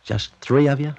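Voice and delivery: high, loud disbelieving question; can't believe it's only three; incredulous. Acted. Shocked at tiny Maquis.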